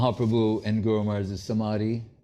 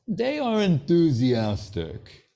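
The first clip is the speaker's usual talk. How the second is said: imitating the guru; 5 semitones higher, slower than usual. Imitating guru's dry verdict.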